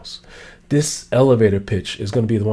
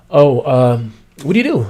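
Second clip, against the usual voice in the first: casual asker. Acted. Acted asker.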